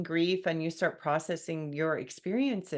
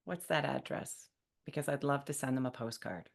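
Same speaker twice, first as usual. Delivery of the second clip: kind reply; 4 semitones lower, 6 dB quieter than usual. Shown as a demonstration. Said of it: "say it in a kind way".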